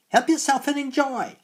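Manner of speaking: very high, loud sniggering witch; sniggering hag. A narrator's reading. Old hag sneering at the boy to eat, high snigger. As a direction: snigger the offer like a mocking crone. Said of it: "she sniggered".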